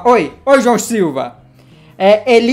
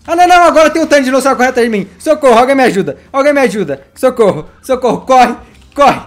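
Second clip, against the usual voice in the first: panicked calls for help; 3 semitones higher, 4 dB louder than usual. Real, not acted. Chased by many dinosaurs.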